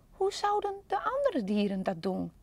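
softly whispered to himself; whispered thought. Acted. Panda wondering to himself, in a hushed whisper. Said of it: "dacht hij".

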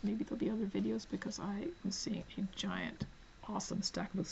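breathy aside under the breath; whisper. Real, not acted. Excited about a giant stack of books, whispering. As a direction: let it slip out as a hushed secret.

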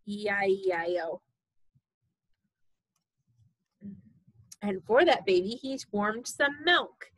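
sing-song storybook reading; reading to a toddler. Acted. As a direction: read it bouncy for a baby.

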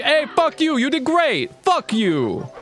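high-pitched hyped-up mock-abusive cheering; screaming praise. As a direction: scream congratulations as if they were insults. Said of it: "Just screaming down the hall".

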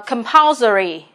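"compulsory" nhấn âm tiết thứ hai "pul"; lướt "com", nhấn vào "pul" trong "compulsory"; trọng âm hai. Shown as a demonstration. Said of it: "trọng âm hai". (đọc mẫu "compulsory", trọng âm ở "pul")

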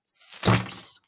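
put-on old author's internal dialogue. Reading an old man's book to co-hosts, mock-solemn. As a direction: build the list of experts theatrically. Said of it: "My voice is his internal dialogue".

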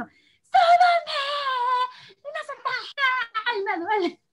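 put-on high wailing little boy; whiny child. Son crying that his foot hurts, high whiny wail. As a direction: cry out like a hurt kid.

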